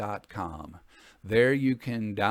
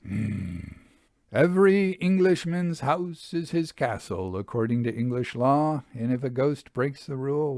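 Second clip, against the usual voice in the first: put-on measured storytelling read of an old travel memoir; unhurried audiobook narration with light colour; story narration; 2 semitones higher than usual. A narrator's reading. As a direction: read it like a gentleman recounting his tour. Reads Victorian travel narrative aloud.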